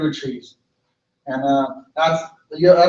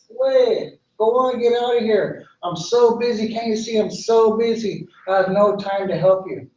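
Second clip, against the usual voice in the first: higher, hurried-off tree voice; busy, brushing-off tan oak; 6 semitones higher than usual. Acted. Busy tan oak refuses the bird, higher and impatient. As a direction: wave the bird away, too busy.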